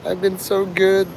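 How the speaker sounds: "I've been so good" high, falling on "good"; mock pout. Mocking Mark pleading he was good, sulky falling whine. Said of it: "ranting and raving to all".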